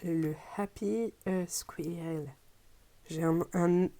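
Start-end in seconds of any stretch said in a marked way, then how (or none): 0.0-2.3 bad English accent. Real, not acted. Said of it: "un accent anglais abominable".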